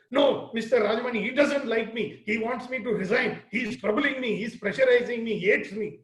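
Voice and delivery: lightly voiced, complaining young trainee; imitating a trainee. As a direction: whine a little like the upset apprentice. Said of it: "And this is how he spoke".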